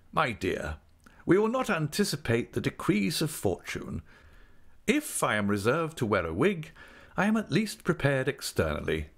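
ostentatious resignation. Acted. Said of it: "with ostentatious resignation".

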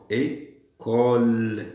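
"École" very slow, split as "é... cole"; syllable by syllable. Shown as a demonstration. Teacher sounding out "École" to find its ending, drawn out. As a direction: hold the second syllable of "École" long. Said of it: "لازمني le".

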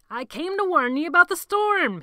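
loud, high shout over the storm. A narrator's reading. Patrick shouting a warning from the doorway. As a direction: call out over the wind. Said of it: "he shouted".

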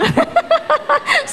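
squealing burst of laughter; bright high laugh; high giggle. Real, not acted. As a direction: let out a high delighted giggle. Laughs at her own tease.

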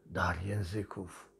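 low, slow, scornful "dar języków"; mocking scorn. Real, not acted. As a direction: sneer at the so-called gift. Mocking alleged speaking in tongues. (drwiąco, nisko i powoli)

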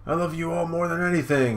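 high, loud, gloating voice with a mock laugh; proud father Judge. Judge gloats over his children in a loud, high voice. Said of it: "And Judge is like".

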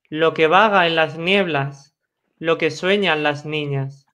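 measured verse reading, phrase by phrase; poem recitation. Acted. Second reader taking up the poem about a fairy friend, measured recitation. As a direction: let each line of verse stand alone.

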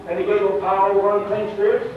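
impassioned pulpit delivery, pitch surging upward; fervent preaching. Real, not acted. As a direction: preach it with building excitement, voice climbing on the key words. Preaches with rising force.

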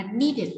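"needed" với đuôi /ɪd/ thành âm tiết riêng; đọc rõ đuôi /ɪd/ trong "needed". Shown as a demonstration. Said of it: "đuôi E D sẽ được phát âm là, à, it". (phát âm "needed" có đuôi /ɪd/)

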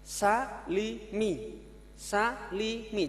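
salimi drawn out slowly; slow reading. Shown as a demonstration. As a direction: read salimi carefully. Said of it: "pengenalan kasro".

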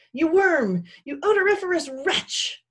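high, loud scornful insults; reviling. A narrator's reading. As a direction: hurl abuse indignantly. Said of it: "commenced to revile the fox".

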